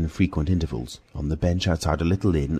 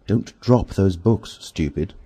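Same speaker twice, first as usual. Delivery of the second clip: sharp; 4 semitones higher, 3 dB louder, slower than usual. Acted. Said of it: "said the voice sharply".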